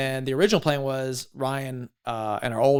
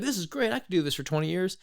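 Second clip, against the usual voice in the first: higher-pitched mock optimism; acted enthusiasm; 5 semitones higher, 4 dB quieter than usual. Sailor telling himself it's great, mild mock enthusiasm. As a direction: play a briefly sold-on recruit. Acting out his upbeat flip-flop moment.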